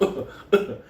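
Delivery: voiceless mock choking noise; imitated cat choking. Storyteller shows the sick cat choking, imitated. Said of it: "it's choking on something".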